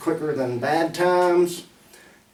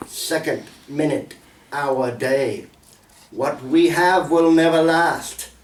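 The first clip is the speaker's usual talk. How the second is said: deliberate, rhythmic verse delivery; poem recital. Acted. Poet sharing a poem about time, measured recital. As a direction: recite in measured lines, softening at the close.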